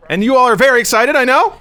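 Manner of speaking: mock excitement. Teasing the audience's hype.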